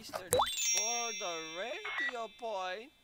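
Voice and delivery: slow, drawn-out game announcer; slow announcer read. Pretend. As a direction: read it like a war-game broadcast. Reads game announcement slowly.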